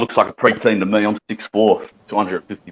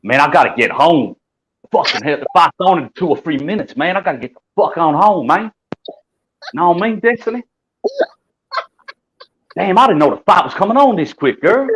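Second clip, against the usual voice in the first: put-on S1's well-spoken American accent, a touch higher; 6 semitones higher than usual. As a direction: speak carefully in an American accent so the chat understands. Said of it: "Just talk like that".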